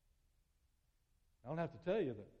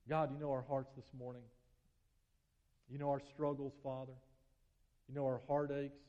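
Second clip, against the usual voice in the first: prayer; 3 semitones lower than usual. Acted. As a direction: pray over the congregation gently. Leads prayer.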